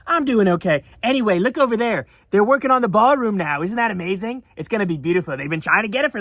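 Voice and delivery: lightly voiced Trump bragging about his ballroom; a hint of a breezy, boastful Trump; Trump impression. Commentator mocking Trump's ballroom boast, lightly voiced. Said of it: "And Trump goes".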